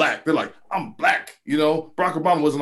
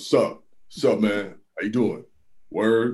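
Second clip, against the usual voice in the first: deeper, lower voice, slower; 6 semitones lower than usual. Showing how his voice changes at a hip hop party: a little deeper voice. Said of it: "then my voice gets a little deeper".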